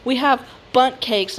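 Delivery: slow, curt, dismissive clerk; snooty clerk. Retold or imitated. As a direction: say it like the answer is obvious. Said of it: "And she said".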